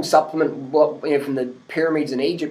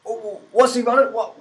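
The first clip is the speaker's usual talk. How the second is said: baffled hiker; 6 semitones higher than usual. Retold or imitated.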